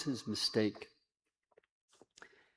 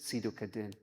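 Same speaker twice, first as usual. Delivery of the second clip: whispering breath; 8 dB quieter, faster than usual. Retold or imitated. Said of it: "that whispering breath".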